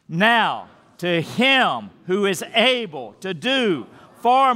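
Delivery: slow, heartfelt group reading; with some heart, not fast. Shown as a demonstration. Pastor leading the church in reciting the verse, slow and heartfelt. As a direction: read it slowly, as if you mean every word. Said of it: "kind of with some heart. Um, so not real fast".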